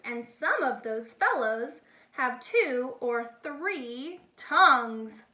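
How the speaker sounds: lively, singsong picture-book reading; animated storybook read-aloud; reading to children. A narrator's reading. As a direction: read it like a bedtime rhyme book. Reads Dr. Seuss to children.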